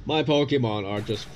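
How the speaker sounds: lightly voiced, condescending villain drawl; mock-sweet, savouring each word; put-on villain talk. Gamer boasting to the opponent about Pokemon, put-on villain drawl. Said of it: "Not sure why I'm talking like this".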